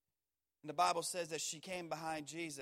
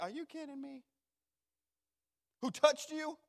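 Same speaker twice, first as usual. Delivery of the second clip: incredulous disciples; 8 semitones higher, 5 dB louder than usual. Acted. Disciples' disbelief acted out.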